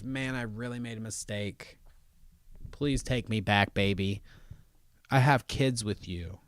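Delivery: soft, low mock plea to a partner; mock pleading. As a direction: imitate a regretful wife, hushed. Voicing regretful wife begging.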